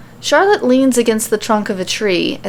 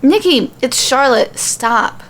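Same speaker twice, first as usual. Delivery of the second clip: urgent call; 5 semitones higher than usual. A narrator's reading. Alexa calling out to screaming Nikki, urgent and high. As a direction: snap her out of the screaming.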